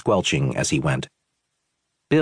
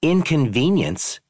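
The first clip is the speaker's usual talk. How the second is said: "Inconvenience?" thrown back much higher, slow and incredulous; thundering outrage; 10 semitones higher, slower than usual. Acted. Tourist repeats the owner's word back, outraged and incredulous. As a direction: spit the word "Inconvenience?" back at him in disbelief. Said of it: "Angry tourist thundered".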